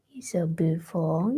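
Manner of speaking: a soft whisper of "You're so beautiful" to the cat; whispered praise. Real, not acted. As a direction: breathe "You're so beautiful" almost without voice.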